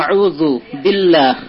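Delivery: আউযু বিল্লাহ drawn out slowly, the lam thin; slow recitation. Shown as a demonstration. Teacher reciting slowly for students. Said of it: "লাম আল্লাহটাকে পাতলা করতে হবে".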